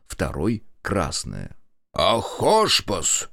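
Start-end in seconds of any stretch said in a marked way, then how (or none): 2.0-3.3 slow, drawn-out bellow; long yell. Acted. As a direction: stretch the cry out long. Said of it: "страшно кричал Кондрат".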